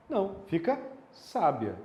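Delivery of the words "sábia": "sábia" in two syllables, SÁ-bia; "sábia" with "ia" run together as one syllable; rising diphthong. Shown as a demonstration. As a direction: glide the "i" into the "a" at the end of "sábia". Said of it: "você pronuncia o i e o a da mesma forma?".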